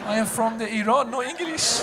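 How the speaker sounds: mom's Iranian accent, lightly hammed. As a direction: play the immigrant mom, slightly high. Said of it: "my mom had an accent in that joke".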